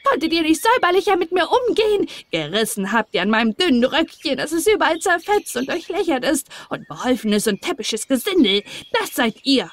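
high, shrill ungrateful dwarf; shrieking dwarf rant; screeching dwarf. Acted. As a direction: screech insults like a petty gnome. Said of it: "schrie er mit seiner kreischenden Stimme".

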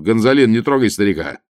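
громко остановить слугу; окрик издалека, чтобы не тронул старика; громкий окрик. A narrator's reading. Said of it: "зычно крикнул он". (громкий приказ слуге)

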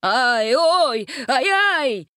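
high, loud pained squeals; squealing. A narrator's reading. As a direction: yelp as they bite. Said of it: "заверещал Дженкинс".

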